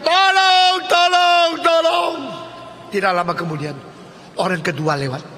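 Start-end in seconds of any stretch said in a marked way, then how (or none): 0.0-2.2 high, loud shouts for help; trapped man yelling for help, higher and louder. Retold or imitated. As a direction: scream up from the pit again. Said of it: "Maka dia teriak".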